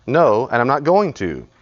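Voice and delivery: put-on slow, stubborn child refusing; a lightly voiced defiant child. Shown as a demonstration. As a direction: dig in your heels like a sulky kid. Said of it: "Started as parent".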